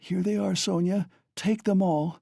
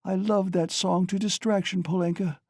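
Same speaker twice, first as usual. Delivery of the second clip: high, rushing delirious chatter; delirious mother recalling a dance and song; feverish excitement; 9 semitones higher than usual. A narrator's reading. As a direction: rave happily in fever. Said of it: "She was violently excited".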